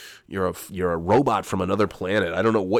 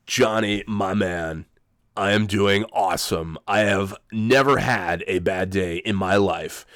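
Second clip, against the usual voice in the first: lightly voiced sports-radio bro, slow on the boast; a half-hearted hyped-up bro, dragging out never; Jim Rome imitation; slower than usual. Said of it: "do a very good imitation either".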